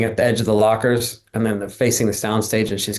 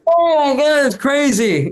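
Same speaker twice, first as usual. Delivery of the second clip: much higher, gushing oh my god; starstruck gush; 4 dB louder, slower than usual. Retold or imitated. Guest reliving meeting Alan Cumming, high starstruck gush. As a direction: squeal it like a starstruck fan. Starstruck reaction to Scottish actor.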